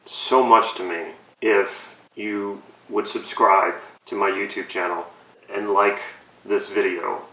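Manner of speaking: choked-up fake emotion, slowing on the plea; mock teary plea. Parodying an influencer, he begs viewers with mock tears. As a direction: pretend to hold back tears while begging for subs. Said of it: "I'm sorry, I'm getting a little emotional".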